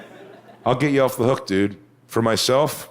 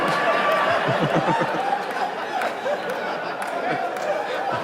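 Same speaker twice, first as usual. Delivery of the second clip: breathy laugh; 8 semitones higher, 5 dB quieter than usual. Real, not acted. Audience-style laugh after quote.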